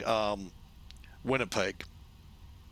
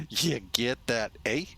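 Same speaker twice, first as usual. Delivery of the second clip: Minnesota eh. Retold or imitated. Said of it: "they draw that accent".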